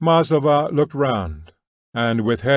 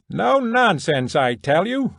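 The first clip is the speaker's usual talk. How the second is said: shouting tramp; 7 semitones higher than usual. A narrator's reading. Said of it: "shouted the tramp".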